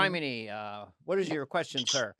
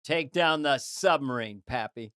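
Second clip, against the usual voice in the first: John Wayne; slower than usual. Retold or imitated. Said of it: "there's a movie where he goes".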